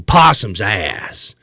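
drawn-out mock cop retort; imitating a cop's slow put-down; cop's stock comeback. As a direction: stretch out the dismissive comeback. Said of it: "that was the immediate comeback for anything".

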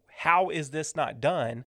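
slow, exasperated question; flustered and frustrated. Acted. Manager over an unfinished task, frustrated. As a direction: frustration held short of yelling. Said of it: "getting flustered and frustrated".

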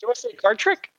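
high, bright carnival pitch; showman pitch. Acted. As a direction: sell the trick like a showman. Showman offering a trick.

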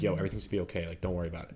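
hushed, easy reassurance, retold; calming inner voice. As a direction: quote a calm voice in your head, softly. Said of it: "weird calming sense inside of me".

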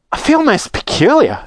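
put-on high-pitched, uneasy girl; acted gasp. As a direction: voice mild alarm at feeling strange. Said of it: "gasped Violet".

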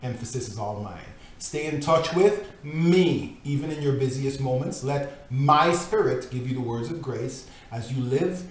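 measured, earnest reading of a devotional book; solemn devotional reading. Acted. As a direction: read it like scripture, steady and grave. Reads devotional text aloud.

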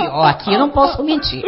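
laughing through the words. Real, not acted. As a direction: joke while laughing. Laughing while joking.

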